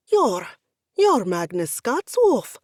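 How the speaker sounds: loud, slow starstruck stammer; sputtering. Acted. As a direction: stumble over the name in awe. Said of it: "Pavio sputtered".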